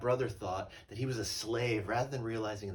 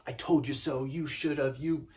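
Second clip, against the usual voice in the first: higher, louder told-you-so nag; mock scolding; 7 semitones higher, 6 dB louder than usual. God pictured lecturing a returning wanderer, mock scolding. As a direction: wag a finger at the returning sinner. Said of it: "Not with a lecture".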